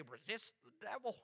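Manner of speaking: soft, hushed pious murmur; mock a believer saying it by rote, no conviction; mock churchy voice. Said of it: "They say it with all that churchy voice".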